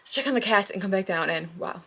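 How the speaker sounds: breathless after the stairs; out of breath. Real, not acted. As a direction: talk while catching your breath. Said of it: "I'm out of breath".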